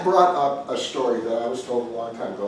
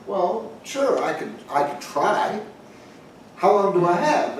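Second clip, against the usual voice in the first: taxidermist; 6 semitones higher than usual. Retold or imitated. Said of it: "And the taxidermist says".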